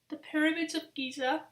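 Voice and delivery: talking through a yawn. Real, not acted. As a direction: yawn while speaking. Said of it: "I'm really sorry for yawning so much".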